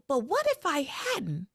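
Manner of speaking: high, slow, pleading lover; hammed-up hurt question, high-pitched; mock Luis plea. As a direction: plead with her, dragging it out. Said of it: "And Luis is like".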